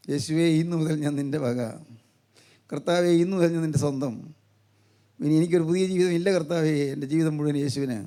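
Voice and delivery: low, subdued prayer of surrender; hushed devotion. Acted. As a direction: pledge yourself humbly to the Lord. Acted vow of the raised youth.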